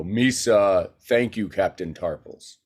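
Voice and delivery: hint of a boyish Gungan lilt; barely changed cartoon Jar Jar; young Jar Jar voice. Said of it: "but he talks like this".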